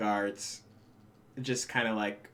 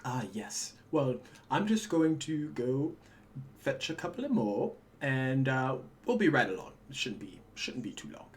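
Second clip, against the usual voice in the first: calm, nonchalant. Acted. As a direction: brush it off calmly, as routine errand. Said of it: "as calmly and as nonchalantly as it is".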